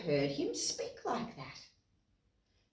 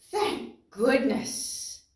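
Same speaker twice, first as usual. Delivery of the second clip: slow, relieved thank goodness; slow relieved thanks to the listeners; relieved sigh of thanks; much slower than usual. Acted. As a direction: breathe it out in relief. Relief after gasp.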